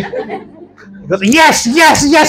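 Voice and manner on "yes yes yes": higher, eager repeated yeses; excited. Retold or imitated. Pastor running to grab a foot, excited. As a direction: imitate someone raring to go. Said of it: "He's all excited".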